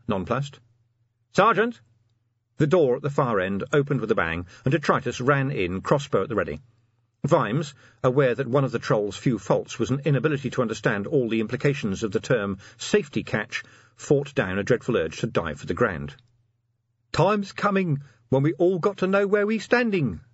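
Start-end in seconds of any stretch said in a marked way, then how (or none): 1.3-1.8 loud call across the room; shouting. A narrator's reading. Calling out to sergeant. 17.1-20.2 troll voice. A narrator's reading.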